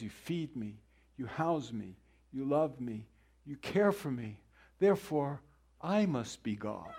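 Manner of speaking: quiet, self-satisfied cat, slowing on the last words; smug cat. Retold or imitated. Pastor voicing a haughty cat judging its owner, quiet and smug. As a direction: lightly play a cat that thinks it is God. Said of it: "A cat looks at you and says".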